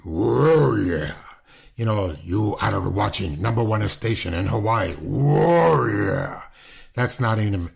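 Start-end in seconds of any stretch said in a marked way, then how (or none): 0.0-6.4 a quick, half-serious impression of the old wrestler's promo call; imitating Pampero Firpo. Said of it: "that's not even a good imitation of Pampero".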